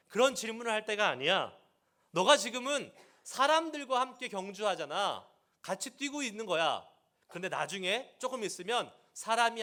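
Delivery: God rebuking Jeremiah, loud and stern; scolding God. Pretend. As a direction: snap him out of his whining. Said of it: "하나님은 오히려 예레미야를 다그치십니다".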